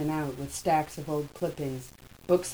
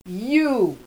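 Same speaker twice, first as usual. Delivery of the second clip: shaking with anger; 7 semitones higher, 8 dB louder than usual. A narrator's reading. Jean enraged, table flipped.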